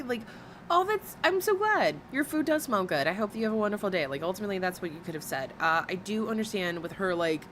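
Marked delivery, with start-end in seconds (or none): 0.7-4.1 gracious reply. Acted.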